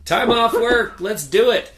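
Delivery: high, loud whooping cheer; excited cheer. Retold or imitated. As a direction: shout it like vacation just started. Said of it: "I'm all like".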